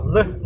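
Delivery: short released "ル" as English l; isolated L sound. Shown as a demonstration. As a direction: say "ル" as the lone l sound. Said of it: "このLの発音っていうのがルなんです". (英語のL単独の音で「ル」)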